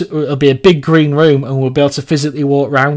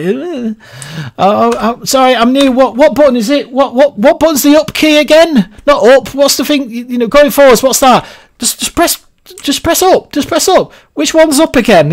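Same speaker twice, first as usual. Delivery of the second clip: high, clueless Welsh newbie voice; Welsh accent; 10 semitones higher than usual. Retold or imitated. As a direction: play a lost Welsh beginner, high. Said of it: "I'll put, like, a Welsh accent".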